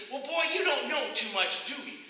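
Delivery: acted exasperation, pitched high; mildly hammed-up upset man belittling a boy; losing his cool. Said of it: "the man loses his cool".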